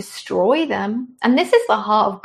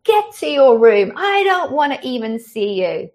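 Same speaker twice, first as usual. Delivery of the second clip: mock angry parent; 5 semitones higher than usual. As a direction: tear into the squabbling kids like a furious parent. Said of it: "I could explode".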